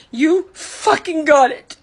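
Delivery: slow, stressed "fucking got it" with bite; a real hurt, bitter finish; bitter slow emphasis. Real, not acted. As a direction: spit it out bitterly, slowly. Repeated, slower and harder.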